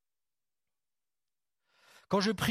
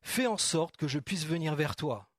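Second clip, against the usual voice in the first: hesitant request; slower than usual. Retold or imitated. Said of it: "Il a dit".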